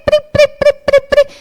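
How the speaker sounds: high, rapid chirping "pri pri pri"; imitated message alert. Mother mimics her phone flooded with messages, shrill repeated pinging.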